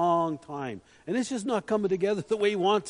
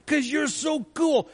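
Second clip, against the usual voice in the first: playful gushing; 9 semitones higher, 5 dB louder, slower than usual. Acted. Playful praise addressed to God.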